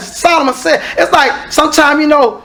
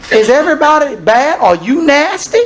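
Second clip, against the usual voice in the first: normal talking voice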